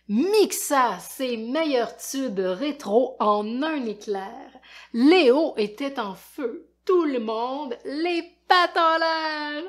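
put-on expressive read-aloud for kids; lecture d'album. A narrator's reading. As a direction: tell it like a lively storyteller to children. Lit un album aux enfants. (lecture animée pour enfants)

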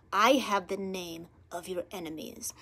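low, hushed whisper of a spirit; spirit's distinct voice. Retold or imitated. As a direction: whisper it close to the ear, imitating a spirit. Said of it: "in a very distinct voice".

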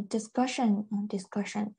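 "discussion" stressed on its second syllable, -cu-; stress unchanged. Shown as a demonstration. Teacher showing the noun keeps its stress, "discussion" stressed on -cu-. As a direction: keep the weight on -cu- in "discussion". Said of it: "这个是没有变的".

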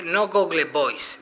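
"Google Voice" said slowly in English, as the wrong option; English "Voice" as wrong take. Shown as a demonstration. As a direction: slowly set "Voice" apart as the wrong word. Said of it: "Tiene que ser Google Voz".

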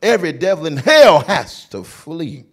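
slow preaching in the name of Jesus; preaching grandma. Retold or imitated. A singer quoting grandma's words to cast out devils. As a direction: proclaim it like a country preacher. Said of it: "My grandma say".

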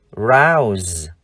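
"rouse" drawn out, ending in a buzzed z; voiced z ending. Shown as a demonstration. Teacher contrasts endings for viewers, "rouse" ending in z. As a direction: say "rouse" slowly with final z, not s. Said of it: "âm cuối chúng ta đọc là z".

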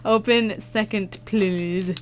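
playful put-on reading of the label; lightly hammed-up label reading; funny reading voice. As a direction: read the label in a silly voice for fun. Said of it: "Why am I saying it like that?".

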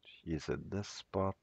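stuffy, nose blocked after surgery. Real, not acted. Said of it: "I can't breathe through my nose".

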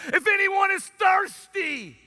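high, slow, full-voiced shout; a preacher bellowing Jesus' call; shouting at the top of his lungs. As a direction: cry it out over a noisy crowd. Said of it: "cried out to the top of his lungs".

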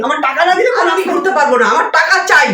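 creditor shouting in anger; angry shouting. Acted. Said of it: "দিদি, আপনি চিৎকার করেন না।".

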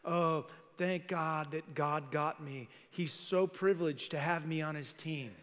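slow, drawn-out smug self-praise; mock arrogance. Pastor mocking churchgoers who think God is lucky to have them, slow and smug. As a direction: preen like you're God's gift. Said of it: "some people have this attitude like".

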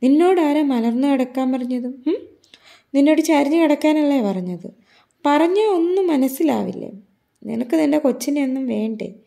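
mock-scold the patient like a strict nurse. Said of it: "വഴക്ക് പറയാണ്".

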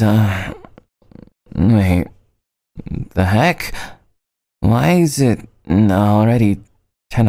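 low, groggy just-woke-up voice; morning voice. Acted. Girl greeting the friend who woke her, groggy morning voice. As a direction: drag the words like you're half asleep. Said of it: "it should be morning voice".

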